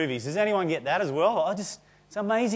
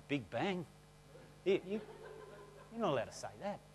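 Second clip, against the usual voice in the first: big bang asked softly, rising, with a laugh; mock the scandalised whisper of the pews; shocked churchgoers; 17 dB quieter, faster than usual. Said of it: "They were looking at me going".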